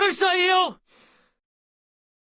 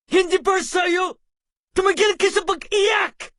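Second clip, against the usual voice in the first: scolding parent. Acted. Parent scolding crying child.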